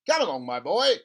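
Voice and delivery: an impatient father, keen and loud; excited father. Acted. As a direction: push him to show you, eagerly. Father voiced in story.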